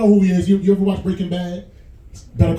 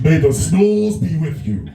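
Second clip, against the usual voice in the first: mock Vader; 4 semitones lower, slower than usual. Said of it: "Breathing like Darth Vader".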